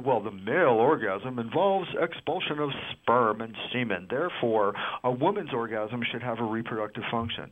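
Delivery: authoritative doctor voice. Acted. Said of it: "I like a doctor who does a doctor voice".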